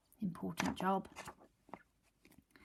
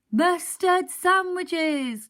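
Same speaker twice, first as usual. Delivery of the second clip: mock chuckle; 9 semitones higher, 11 dB louder, much slower than usual. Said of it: "chuckled Mister Grinling".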